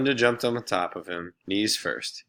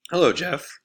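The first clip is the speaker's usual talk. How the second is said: teasing; 9 semitones higher, 4 dB louder than usual. Acted. Laurie teasing Jeff.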